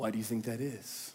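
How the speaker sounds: hushed, very low, quiet, soft voice. Retelling a counselor's question to him, in a quiet, soft voice. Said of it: "he said in a quiet and soft voice".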